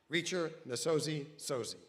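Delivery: loud, ringing name call; excited introduction. Real, not acted. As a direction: announce her name with a big welcome. Announcer calls speaker's name.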